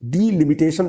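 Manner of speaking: डिलिमिटेशन with a clear "dee-" at the start; correct pronunciation. Shown as a demonstration. Teacher repeats how it should be read, correct pronunciation. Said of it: "पढ़ेंगे इसको".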